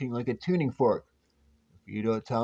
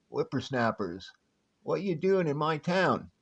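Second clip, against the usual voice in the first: a hint of a crusty old Western prospector accent; lightly drawled old-timer Western accent; 3 semitones higher than usual. Old prospector accent scaring off visitors to his town. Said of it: "Your accent".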